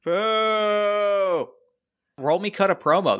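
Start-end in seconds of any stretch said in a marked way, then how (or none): 0.0-1.5 mock crowd boo. Crowd booing imitation.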